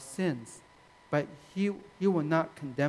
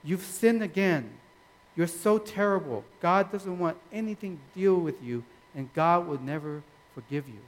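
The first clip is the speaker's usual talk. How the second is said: mildly raised voice of an accuser; accusing, condemning; 3 dB louder than usual. Acted. Satan accusing a believer who sinned, condemning. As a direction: lay on the blame, a little forcefully. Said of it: "This accusing, condemning type of voice".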